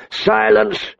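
a high, sharp mock roar. A narrator's reading. King silencing the queen at Ned's bedside, roaring. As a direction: cut her off with a roar. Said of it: "the king roared".

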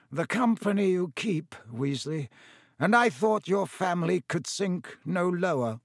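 lightly voiced sneering villain, pitched a little up; a hint of lofty disgust; Lucius Malfoy, contemptuous. Lucius Malfoy insults Weasley.

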